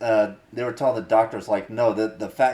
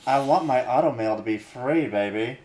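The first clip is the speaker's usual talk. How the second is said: Impression of a famous singer. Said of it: "alchemist anime singer".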